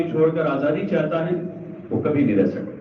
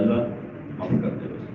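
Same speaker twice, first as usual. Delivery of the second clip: repentant plea; 5 dB quieter than usual. Acted. Yunus turning to God inside the fish, repentant plea. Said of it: "تو رجوع کر لیا کہ".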